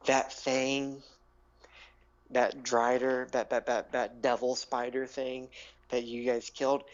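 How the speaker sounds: lightly dramatic tale with long pauses; dramatic storyteller. Acted. Gnome revealing Falika's story to adventurers, lightly dramatic telling. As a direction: pause between phrases for suspense.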